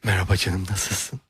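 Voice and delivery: soft, low-key woman voice; lightly voiced woman greeting; man doing a woman's voice. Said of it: "Bir kadın sesi yap".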